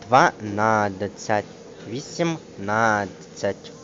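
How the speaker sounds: ДВАНАДЦЯТЬ, ВІСІМНАДЦЯТЬ slowly split, beat on long НАД; penultimate stress. Shown as a demonstration. Teacher demonstrating numerals, stress on second-last syllable. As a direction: stretch NAD in both words. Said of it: "наголошений передостанній склад".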